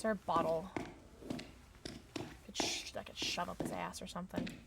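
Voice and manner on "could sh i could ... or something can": unvoiced, soft whisper. Real, not acted. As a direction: whisper so he won't hear. Hiding from the killer.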